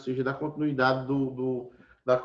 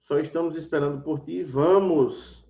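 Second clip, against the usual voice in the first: loud, urging call to hurry; urgent command; 5 dB louder than usual. Shown as a demonstration. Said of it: "No imperativo também". (chamado imperativo, alto e apressado)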